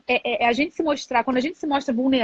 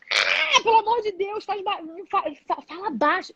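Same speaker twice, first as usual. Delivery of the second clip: exasperated mother hushing; 7 semitones higher than usual. Retold or imitated. Mother hushing noisy son. (mãe impaciente pedindo silêncio, aguda e arrastada)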